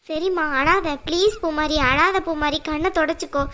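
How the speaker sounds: gently calm a crying daughter-in-law; a low, slow plea not to cry; soothing. Acted. Mother-in-law consoling crying girl.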